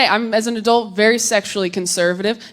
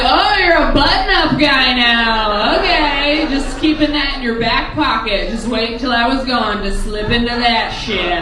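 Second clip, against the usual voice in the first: mock sarcasm; 2 semitones higher, 3 dB louder than usual. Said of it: "I'm like".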